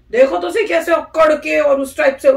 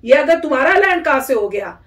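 pretend confrontation; 4 dB louder than usual. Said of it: "मैं कहती".

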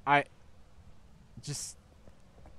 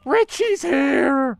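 panicked shout; 5 semitones higher, 7 dB louder, much slower than usual. Real, not acted. Panicked warning of monster.

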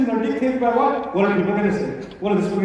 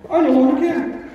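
one of the listeners; 5 semitones higher than usual. Retold or imitated. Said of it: "This is one of you".

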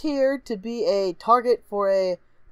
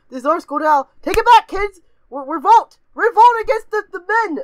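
loud, raised rabble-rousing call; mock rebel rallying cry; 9 semitones higher, 6 dB louder than usual. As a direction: whip the kids into a revolt. Acting out kid rallying a revolt.

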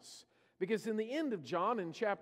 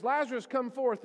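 raised, ringing command of Lazarus, louder; commanding call; 6 semitones higher, 7 dB louder than usual. Retold or imitated. Jesus calling into the tomb for Lazarus, raised commanding voice. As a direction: call him out of the tomb with authority.

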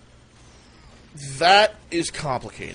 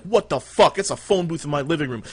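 higher and louder, retelling the shock of a booth in the living room; mock shock; 4 semitones higher, 5 dB louder than usual. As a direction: blurt it out like you can't believe your eyes. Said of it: "I'm like".

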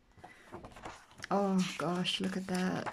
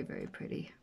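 whispered; 12 dB quieter than usual. Real, not acted. Whispered praise of page.

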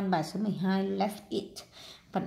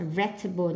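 "vegetable" stressed on VEG, the first syllable. Shown as a demonstration. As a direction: demonstrate "vegetable" with the beat up front on VEG. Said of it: "nhấn âm một".

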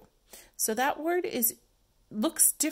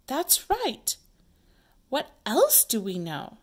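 acted play character; 4 semitones higher than usual. Teacher acting out play.

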